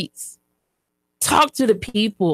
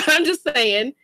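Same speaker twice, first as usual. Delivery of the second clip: laughing through tears. Real, not acted. Laughing while tearing up.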